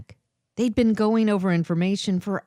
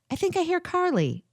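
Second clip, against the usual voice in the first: raised voice, hurried and flustered; flustered female voice; 11 semitones higher than usual. Acted. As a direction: blurt it out, embarrassed. Flustered excuse, high voice.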